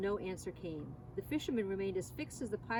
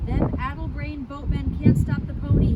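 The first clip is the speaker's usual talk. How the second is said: rasping call; 6 semitones higher, 14 dB louder than usual. A narrator's reading. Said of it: "his voice rasped".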